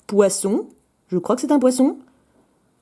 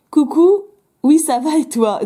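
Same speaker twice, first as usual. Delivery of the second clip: voix d'Ariel jouée; 5 semitones higher, 3 dB louder, slower than usual. Pretend. Fait parler Ariel du dessin.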